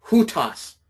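"hutas" with an audible H before the u; rough breathing. Shown as a demonstration. Teacher showing Greek students the rough breathing, "hutas" with an H. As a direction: start "hutas" with a clear H sound. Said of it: "add that H in front of it".

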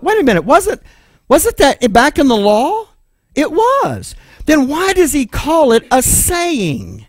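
high, acted surprise at the question; mock puzzled. Preacher voicing the class's surprise, mock puzzled. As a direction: play the baffled student, pitch up.

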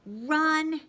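loud, high command to flee; urgent order. A narrator's reading. Annabeth telling friends to flee, loud urgent. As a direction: snap it out urgently.

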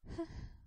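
soundless breathy sigh; happy sigh. Acted. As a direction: let out a contented breath. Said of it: "Alice let out a happy sigh".

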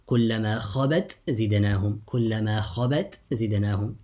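خبت with a clear final ت before زدناهم; izhar. Shown as a demonstration. Teacher demonstrates the zay example to students, izhar. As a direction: keep ت and ز apart in خبت زدناهم. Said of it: "You recite with إظهار".

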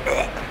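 short disgusted gagging noise; imitated retch. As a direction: mimic someone nearly throwing up. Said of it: "she was practically throwing up".

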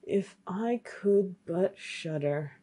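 slow, drawn-out lament; wistful refrain. Acted. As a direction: sigh out the old refrain slowly. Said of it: "once more began his old song".

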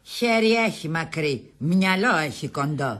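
slow, low, measured delivery; dry verdict. Acted. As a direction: pronounce it slowly like a verdict. Dry verdict on her brother.

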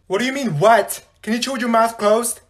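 sharply annoyed demand; irritated scolding. Acted. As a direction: tell off a noisy chewer. Annoyed by loud chewing.

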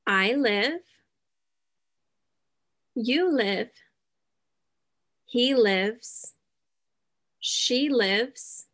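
short, clear conjugation lines with pauses; drill for repetition. Shown as a demonstration. Teacher drilling the verb live for the class, clear and paced. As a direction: give each form cleanly, then leave room to echo. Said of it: "Repeat after me".

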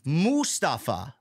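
"Mustafa" slowly, opening on a cow's moo; drawn-out first syllable. Shown as a demonstration. Host shows co-host how he says the name, "Mustafa" as MOO-stafa. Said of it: "Moo, like moo, like a cow".

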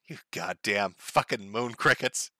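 low, soft, slow, no venom at all; flat trial read. Shown as a demonstration. Trying out the slur quietly, a flat, slow test read. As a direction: test the insult quietly with no anger behind it. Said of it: "get angry and then scream that".

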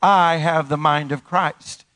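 slow call-and-response declaration; slow, drawn-out affirmation. Shown as a demonstration. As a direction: lead the congregation slowly. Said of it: "Say it with me".

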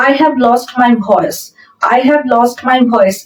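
very slow, word by word dictation; slow model sentence. Shown as a demonstration. Teacher reading the example sentence aloud to students, very slow and clear. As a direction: spell it out slowly for learners. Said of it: "গান গাইতে গাইতে গলা ভেঙে গেছে".

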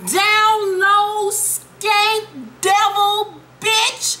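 high, drawn-out indignant voice; sarcastic high outrage at the TV character; mock-scandalized rant. Real, not acted. Speaker ranting at character on show.

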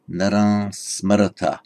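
naran ending in a nasal vowel. Shown as a demonstration. Teacher repeating the nasal naran for students. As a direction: soften the final m of naran into the nose. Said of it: "pronounced by a northern Indian today as".

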